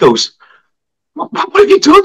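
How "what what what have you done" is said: very high, stammered astonishment; amazed swimmer. Retold or imitated. Swimmer questioning the teacher's new look, astonished. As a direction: squeak it out in mock disbelief.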